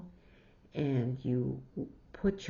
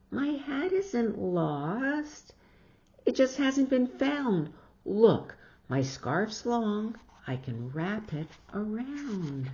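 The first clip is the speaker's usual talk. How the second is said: put-on cheeky little girl; 5 semitones higher than usual. Jillian talking back to her mother, high and pert. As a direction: play the defiant small girl. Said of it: "Jillian answers mother".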